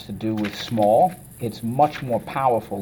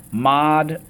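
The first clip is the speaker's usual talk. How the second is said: MODERATE split into three raised, separate syllables; 4 semitones higher, 3 dB louder than usual. Shown as a demonstration. Teacher cueing the class on a new word, syllable by syllable. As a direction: sound out MODERATE as mod, er, at. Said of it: "Okay, let's go".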